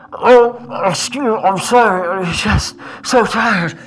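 a lightly voiced exhausted prisoner, fake apology; muffled tired slave. GM voices chained human faking a stumble, tired mumble. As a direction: mumble an excuse, pretending to be worn out. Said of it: "this muffled voice just saying".

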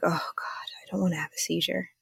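hushed, breathy panic under the breath; a frightened whisper to herself as a seizure looms; scared whisper. Retold or imitated. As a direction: whisper it like you're scared to say it aloud. Panicked inner thought before seizure.

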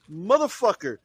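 retold exasperated clapback; defiant retort. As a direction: throw it back at them, mock-offended. Acted retort to being called Yankee.

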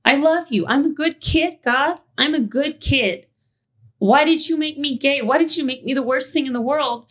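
high, pleading prayer to Jesus; childhood prayer. Retold or imitated. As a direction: beg God like a hurt kid.

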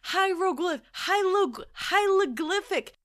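stumbling restarts on "hieroglyphic"; high, loud "hieroglyphic", breaking off and retrying; struggling to pronounce. Retold or imitated. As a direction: fight through "hieroglyphic", muddling L and R. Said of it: "I could not pronounce hieroglyphics".

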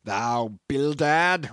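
slow, loud roar of outrage; furious old captain's bellow. A narrator's reading. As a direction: roar the name, drawn out. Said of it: "roared Peleg".

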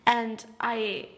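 put-on British accent, playful; light mock-British accent. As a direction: answer as a British interviewee. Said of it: "I'm gonna do a British accent".

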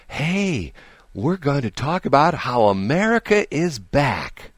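mock upbeat radio tease, slow; a light take on a perky anchor's promo; imitating radio host. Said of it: "the lady comes on at the top of the hour".

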